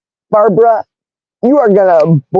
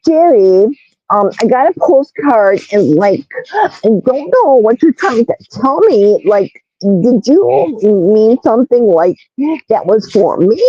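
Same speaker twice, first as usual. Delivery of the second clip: lightly put-on Kardashian talk, slightly raised; 3 semitones higher than usual. People messaging Jerry about a postcard, light Kardashian impression. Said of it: "in their beautiful Kardashian voice".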